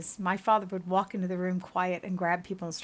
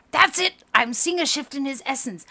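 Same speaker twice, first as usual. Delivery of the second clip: high, loud excited exclamation; excited discovery; 6 semitones higher, 7 dB louder than usual. Acted. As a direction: burst out at a breakthrough.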